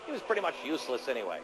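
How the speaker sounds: booming Soviet comrade orator; fiery revolutionary speech. Acted. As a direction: rouse the comrades like a party propagandist. Mock Soviet propaganda address.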